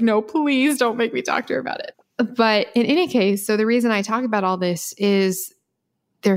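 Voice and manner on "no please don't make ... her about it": higher, lightly voiced begging student; a touch of mock pleading, pitched up. Student begging not to ask his mother, hammed-up plea. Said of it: "They said exactly the son was like".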